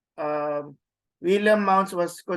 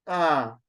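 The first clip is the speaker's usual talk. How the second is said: ah with the pitch falling; low, falling ah; grave accent; 3 semitones lower than usual. Shown as a demonstration. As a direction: let ah drop in tune. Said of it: "the grave accent".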